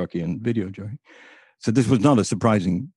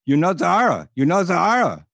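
higher, lightly voiced foreign accent; Gaddafi voice; 7 semitones higher than usual. Gaddafi asking the host about the princess, lightly imitated foreign voice. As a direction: press the name twice, expecting recognition. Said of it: "He says".

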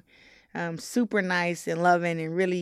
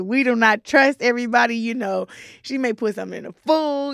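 louder, higher stern grandma voice; imitating grandmother; 5 semitones higher, 7 dB louder than usual. Boxer imitating her grandmother's kitchen warning, loud and stern. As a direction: play the no-nonsense grandma laying down the law. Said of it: "my grandmother was like".

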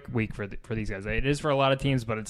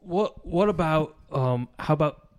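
put-on pirate-style accent; 2 semitones higher than usual. Co-host slipping into a Jack Sparrow voice, light pirate slur. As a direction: lean into a slurred pirate voice. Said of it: "You turned into Jack Sparrow".

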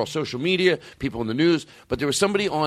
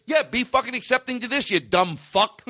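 exasperated rant; 6 semitones higher than usual. Acted. Exasperated comic rant answering the objector.

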